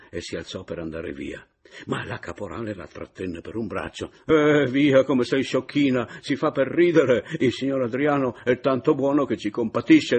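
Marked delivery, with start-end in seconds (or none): 4.2-10.2 loud, higher cajoling; jolly the sulking girl along; coaxing laughing it off. A narrator's reading. Caporale holding Adriana back, loud jolly coaxing.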